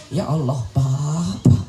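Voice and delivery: low, slow tearful wail; mock crying. Old-time mother crying to her husband, mock tearful. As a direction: act out a mother weeping. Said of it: "Nangis emak kita".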